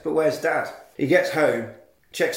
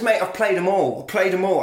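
cocky boast; 4 semitones higher than usual. Retold or imitated. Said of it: "And he says".

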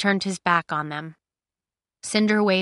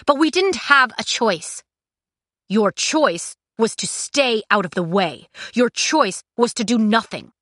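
heated argument; 4 semitones higher, 4 dB louder than usual. Acted. Heated quarrel between Kai and Cinder.

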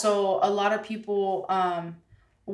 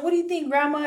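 high, louder retold question to grandma; raised, lively "what do you think"; animated question; 8 semitones higher, 5 dB louder, faster than usual. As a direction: ask it eagerly, acting it out. First retold asking of grandma.

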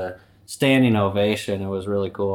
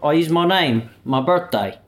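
put-on Cockney accent; 7 semitones higher than usual. Careless Londoner reveals password, chirpy Cockney accent. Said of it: "So that's a Cockney accent".

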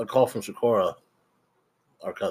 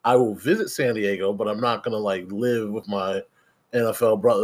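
laughing refusal. Retold or imitated. Mocking reply to cousin, laughing.

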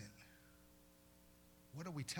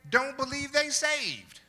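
loud preaching; 12 semitones higher, 13 dB louder, slower than usual. Acted. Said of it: "repeated higher".

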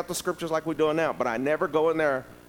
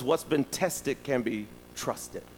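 slow quoted saying; 2 semitones lower, 4 dB quieter, slower than usual. Retold or imitated. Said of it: "one of them was".

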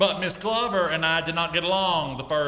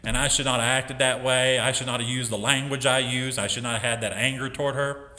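humble apology; 6 semitones lower than usual. Retold or imitated. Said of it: "Told her".

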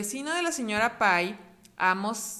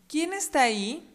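dog voice; 6 semitones higher, 4 dB louder than usual. Acted. Voz del perro.

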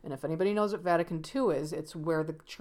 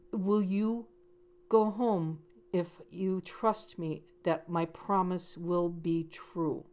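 odd slow pleading; slower than usual. Retold or imitated. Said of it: "you just heard how I said that".

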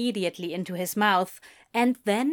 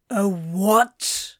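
startled disbelief; 5 dB louder than usual. A narrator's reading. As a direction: blurt it louder, jolted from grogginess. Crowley startled nearly upright by safe word.

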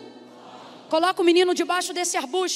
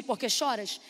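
"Por que choras" lower and softer, just cited; soft quoted question; 6 semitones lower, 5 dB quieter than usual. Shown as a demonstration. Preacher quietly quoting the angel's words to explain them. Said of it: "Sabe o que significa literalmente isso aqui".

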